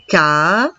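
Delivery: ca-ra-fe said in three separate beats; syllables split. Shown as a demonstration. Teacher splitting a word for pupils, in clear beats. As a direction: tap out ca-ra-fe syllable by syllable. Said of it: "nous allons faire le découpage syllabique".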